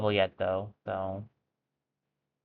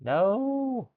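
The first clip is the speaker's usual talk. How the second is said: dismayed cry; 13 semitones higher than usual. Real, not acted. Sudden setback in the game.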